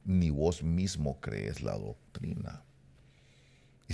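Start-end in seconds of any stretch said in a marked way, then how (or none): 0.1-2.6 devil's voice. Retold or imitated. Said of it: "oí casi que la voz del diablo me decía".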